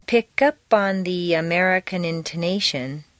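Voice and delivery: smoothly joined PICK UP ON THE AMERICAN INTONATION; linked words. Shown as a demonstration. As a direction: PICK UP ON as one unbroken chain. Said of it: "feel each sound pushing into the next".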